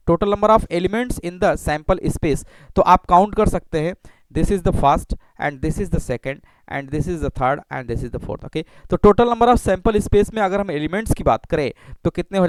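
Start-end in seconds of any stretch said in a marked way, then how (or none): 0.1-2.5 slow, word by word, for students to write; slow dictation. Shown as a demonstration. Teacher dictating the definition to the class, slowly. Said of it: "धीरे धीरे मैं पढ़ रहा हूँ". 4.4-8.4 slow, pointing out each one; slow counting. Shown as a demonstration. Teacher counting the outcomes for students, slowly. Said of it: "धीरे धीरे मैं पढ़ रहा हूँ".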